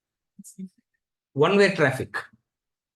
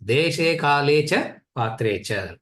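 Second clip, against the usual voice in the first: slow scriptural quote; much slower than usual. Shown as a demonstration. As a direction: intone the Gita line slowly. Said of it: "quoting Gita verse again".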